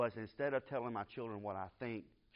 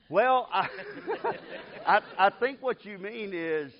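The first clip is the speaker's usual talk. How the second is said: much higher and louder, laughing between words; laughing through it; 9 semitones higher, 8 dB louder, slower than usual. Retold or imitated. Father correcting little daughter at bedtime, laughing. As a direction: try to correct her but keep laughing.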